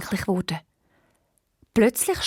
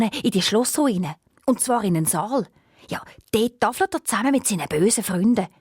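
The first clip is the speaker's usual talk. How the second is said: hoarse owl voice; 3 semitones higher than usual. Acted. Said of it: "mit ihrer heiseren Stimme".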